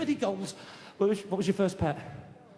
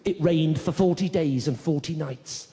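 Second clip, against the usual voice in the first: slow, grand scripture reading; slow pompous Bible voice; mock biblical; 6 semitones lower, 4 dB louder, slower than usual. Shown as a demonstration. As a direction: intone it like an old Bible. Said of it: "people don't speak like that anymore".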